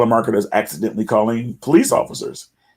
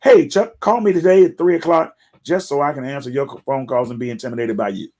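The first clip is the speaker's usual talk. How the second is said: mock the caller's eager tone; sarcastic pretend phone invite; mock cheerful invite; 3 semitones higher than usual. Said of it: "You didn't say".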